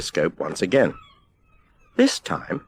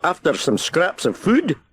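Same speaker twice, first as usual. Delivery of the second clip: lighthouse keeper; 8 semitones higher than usual. A narrator's reading. Keeper asks the seagull.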